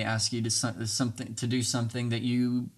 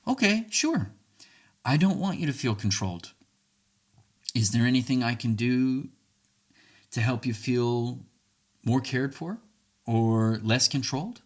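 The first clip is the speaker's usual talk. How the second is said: calm, reassuring answer. Shown as a demonstration. Calm reply to an accusation.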